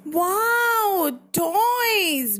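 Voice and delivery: drawn-out, delighted little gasp of wonder; delighted wow. Acted. Bruno the little bear spots the toys, delighted. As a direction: act a child thrilled at spotting toys.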